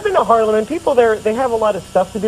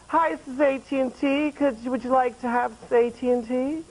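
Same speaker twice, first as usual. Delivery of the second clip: phone solicitor; 6 semitones higher than usual. Acted. A T and T solicitor calling every day, higher sales-pitch voice. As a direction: pitch it like a chirpy telemarketer. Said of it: "And they're like".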